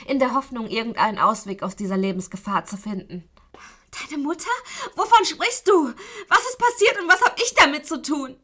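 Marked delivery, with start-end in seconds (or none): 4.1-8.4 high, loud, frantic questions; desperate pleading. Acted. Chained captive desperately questions her kidnapper. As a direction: ask in mounting panic, half-crying.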